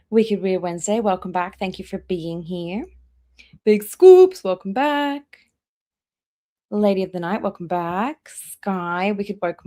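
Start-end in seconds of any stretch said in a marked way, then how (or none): 3.6-5.4 much higher and louder, a delighted squeal of the name; excited greeting. Real, not acted. Greeting a regular chatter on the stream, high excited squeal. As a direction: squeal the name like a long-lost friend.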